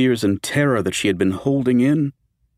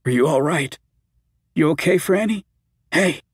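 concerned; 7 semitones higher than usual. A narrator's reading. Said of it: "true concern in his voice".

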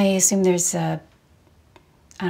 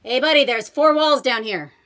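from another room; 4 semitones higher, 5 dB louder than usual. Acted. Calling from the basement.

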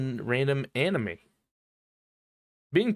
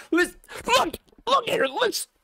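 much higher squeaky put-on voice. Streamer scolds the viewer in a squeaky voice. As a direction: pipe up squeakily.

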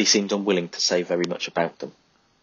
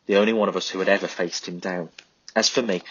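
plain reading voice

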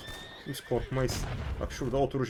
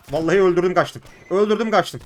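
loud excited bragging; thrilled shout; gleeful boast; 3 semitones higher, 8 dB louder than usual. Real, not acted. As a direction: crow about the kill. Boasting after a kill.

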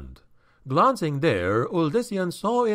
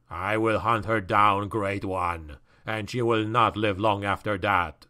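creature's vow; 5 semitones lower than usual. Acted. Creature vows to hunt her.

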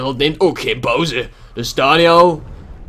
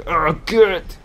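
a short, sharp, higher shout of "kut!"; demo yell; 3 semitones higher than usual. Shown as a demonstration. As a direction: show the viewers how you'd yell it. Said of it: "hoe ga ik schreeuwen?".

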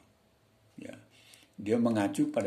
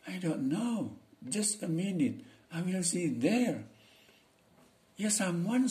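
higher, slow servant answering the master; 9 semitones higher, slower than usual. Acted. Teacher reads the servant's lines to students, higher. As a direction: play the eager servant, pitched up.

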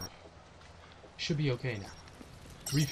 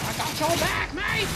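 mock British voice. Echoing in mock British pitch.

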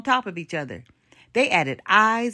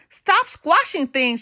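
higher, slower, emphatic command; storybook shout; 5 semitones higher than usual. A narrator's reading. Princess in Black ordering the giant, mild shout. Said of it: "shouted the Princess in Black".

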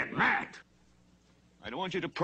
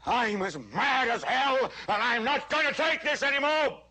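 demo yell; 7 semitones higher than usual. Acted. Newsman showing viewers the yell, high and furious. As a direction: shout it like leaning out a window. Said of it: "stick your head out and yell".

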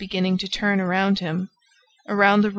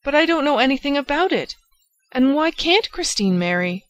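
fast, raised, urgent protest; agitated protest; 6 semitones higher, 3 dB louder than usual. A narrator's reading. Raoul protesting to the old lady, fast and raised. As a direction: blurt it out in distress.

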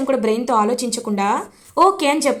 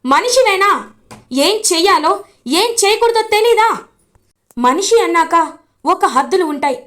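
raised, high-pitched scolding rant; angry shouting; 3 semitones higher than usual. Acted. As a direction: tear into him with disgust. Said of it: "గట్టిగా అరుస్తాడు గగన్".

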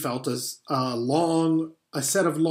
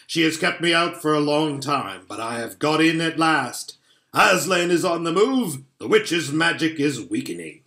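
Father Christmas; 3 semitones higher, 4 dB louder than usual. Acted. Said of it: "said he".

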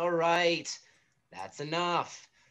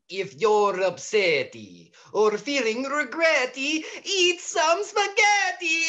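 put-on Italian accent. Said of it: "That was totally Italian".

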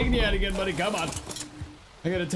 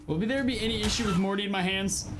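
ordinary delivery

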